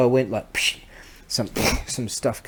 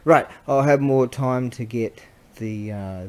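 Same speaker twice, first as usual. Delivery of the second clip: usual speaking voice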